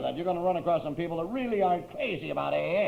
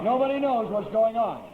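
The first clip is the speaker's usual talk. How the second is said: louder, laughing through the words; 5 semitones higher, 5 dB louder than usual. Real, not acted. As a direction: laugh it out at the absurdity. Repeated line, now laughing aloud.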